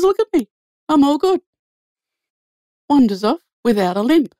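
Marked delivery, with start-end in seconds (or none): 0.0-1.4 woman healed of her ankle, beaming with delight. Retold or imitated. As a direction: burst out with joy, grinning. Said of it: "gets a big grin on her face".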